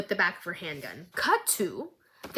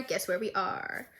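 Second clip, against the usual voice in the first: hushed teaser; 2 semitones lower, 6 dB quieter than usual. Real, not acted. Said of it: "Guys, guess where we are?".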